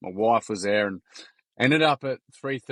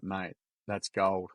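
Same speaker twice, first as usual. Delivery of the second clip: warm mate; 4 semitones lower, 4 dB quieter than usual. Retold or imitated. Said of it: "one of them was like".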